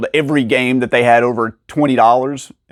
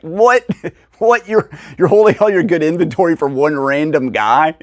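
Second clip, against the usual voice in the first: high, laughing double take of disbelief; like you can't believe what you just heard; 3 semitones higher than usual. Retold or imitated. Retelling to viewers how he reacted to the store owner, high and laughing in disbelief.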